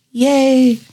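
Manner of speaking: high little "yay" for oneself; little cheer. Real, not acted. Celebrates own promotion to supervisor.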